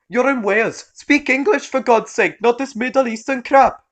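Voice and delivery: high, loud, bigoted rant; angry shrill shout. Acted. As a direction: snap at him like an entitled Karen. Entitled mum ranting.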